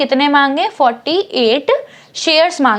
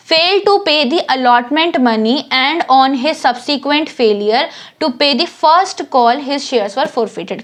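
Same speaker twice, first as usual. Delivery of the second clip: slow reading; much slower than usual. Shown as a demonstration. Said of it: "reading question text slowly".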